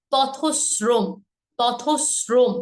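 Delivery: পথশ্রম split as "potho-s-srom"; দ্বিগুণ শ. Shown as a demonstration. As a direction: hold the sibilant in পথশ্রম. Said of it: "same ভাবে". ("পথশ্রম" বলো পথস্-স্রম)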